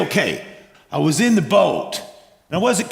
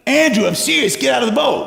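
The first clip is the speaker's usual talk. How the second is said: higher, urgent mock order; insistent calling out; 5 semitones higher than usual. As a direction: insist that your friend hurry up. Peter repeats order to Andrew.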